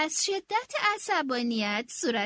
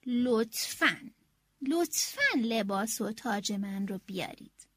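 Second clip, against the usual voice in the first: polite please; 6 semitones lower than usual. Shown as a demonstration.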